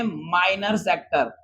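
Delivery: slow term. Shown as a demonstration. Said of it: "क्या बोलेंगे?".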